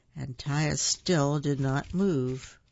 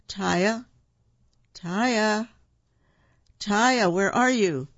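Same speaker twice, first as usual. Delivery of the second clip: raised, building search call; 5 semitones higher, 4 dB louder, slower than usual. A narrator's reading. Father looking for his lost daughter, calling out. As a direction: call higher and louder each time.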